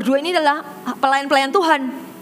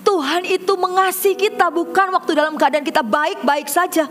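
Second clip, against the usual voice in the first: rising sermon climax; 5 semitones higher than usual. Acted. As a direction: lift it up like a pulpit climax. Preacher builds to climax. (berkhotbah dengan semangat yang makin naik)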